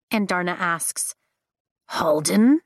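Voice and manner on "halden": slow, louder musing rise; musing slowly. A narrator's reading. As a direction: savour the name as you wonder. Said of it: "Tern muses slowly".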